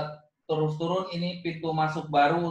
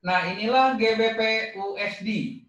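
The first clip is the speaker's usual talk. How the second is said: excited; 6 semitones higher, 3 dB louder than usual. Real, not acted. Announcing the requested chart.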